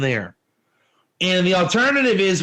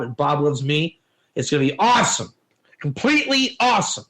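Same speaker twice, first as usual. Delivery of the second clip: mock gushing over his buddy; lightly hammed-up excitement; excited fan; 4 semitones lower than usual. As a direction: gush like a starstruck fan. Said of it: "So you're excited".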